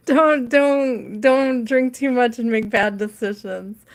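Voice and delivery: words breaking through real laughter; warning the chat while cracking up; laughing warning. Real, not acted. Warning tarot viewers against bad decisions, laughing. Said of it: "I'm laughing so hard at that".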